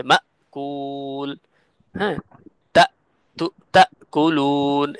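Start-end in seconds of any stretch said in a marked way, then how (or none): 0.0-1.3 মা কুল said slowly with the sound cut off at the hamza; glottal stop demo. Shown as a demonstration. Teacher showing students how hamza stops the voice. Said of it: "হামজা বলার সময় সাউন্ডটা বন্ধ হয়". 3.4-4.9 তা কুলুন slow, with a clean catch before the vowel; hamza demo. Shown as a demonstration. Teacher demonstrating hamza's closed vocal cords to students. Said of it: "এই যে আমরা তা বললাম".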